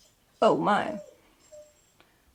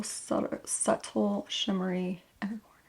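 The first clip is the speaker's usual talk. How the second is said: soft unvoiced whisper; 6 dB quieter than usual. Real, not acted. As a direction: breathe the words as a whisper. Whispered product description.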